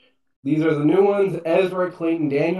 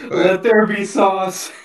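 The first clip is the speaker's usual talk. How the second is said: mock biblical proclamation; 4 semitones higher, slower than usual.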